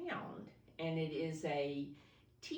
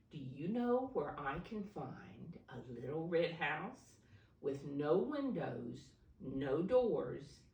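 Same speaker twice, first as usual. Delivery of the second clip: gentle, clear storybook reading for little ones; reading to children. A narrator's reading. Teacher reading a picture book to preschoolers, storybook voice.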